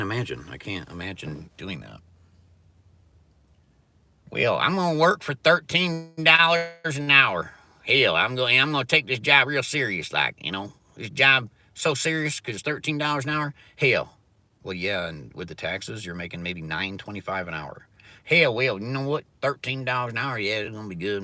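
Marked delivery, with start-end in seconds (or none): 4.3-14.2 mock hick worker. Mocking a proud Walmart worker. 18.2-21.2 mock hick worker. Continues hick worker mockery.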